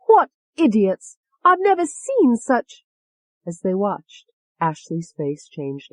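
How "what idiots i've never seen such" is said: slow, loud, higher scornful jeer; Tony's voice. A narrator's reading. Tony jeering at the doctors, slow scorn. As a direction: drag it out with contempt. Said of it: "Tony said".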